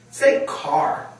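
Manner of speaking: put-on high, breathy prompt to a child; instruction demo. Shown as a demonstration. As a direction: cue the word for the child to copy. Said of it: "So I'd say".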